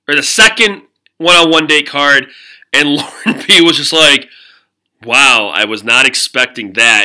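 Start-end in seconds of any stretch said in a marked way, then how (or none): 5.0-7.0 flat, slow and lower, no excitement at all; deadpan it like you couldn't care less; monotone. Retold or imitated. Lauren B reacting to the date card, slowly, in a low monotone. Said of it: "in a very monotonous, monotone way".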